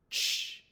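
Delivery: "Ch" as one unvoiced, hissed burst; isolated letter sound. Shown as a demonstration. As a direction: release "Ch" sharply with no vowel after it. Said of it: "we make this sound".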